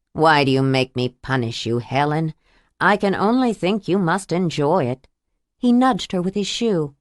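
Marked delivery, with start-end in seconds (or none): 0.1-5.1 lower, cold reproach; a hint of a calm cruel husband; menacing abuser. Abuser voiced low, menacing.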